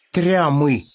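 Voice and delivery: lightly awed hare; respectful. A narrator's reading. Hare impressed by the strange word, mildly respectful. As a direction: say it with a touch of reverence. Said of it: "уважительно сказал заяц".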